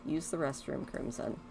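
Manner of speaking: whispering the name; whispered. Real, not acted. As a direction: breathe the name softly. Softly calling a sleeping kid.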